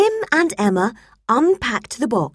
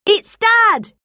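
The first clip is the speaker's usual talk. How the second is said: high, loud, delighted Dad; boy shouting that Dad is calling; excited boy; 13 semitones higher, 5 dB louder than usual. A narrator's reading. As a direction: burst out with the news. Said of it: "Tim exclaimed".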